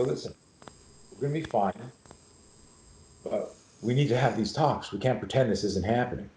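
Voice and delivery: calm reassurance. Retold or imitated. Dad calming his worried kids.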